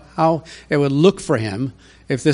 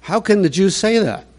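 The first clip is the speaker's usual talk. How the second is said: incredulous; 6 semitones higher than usual. Real, not acted. Preacher's incredulous outburst.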